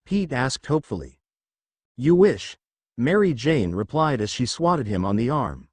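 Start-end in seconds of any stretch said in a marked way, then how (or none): 2.0-2.5 teasing. A narrator's reading. Wife teasing, swats him.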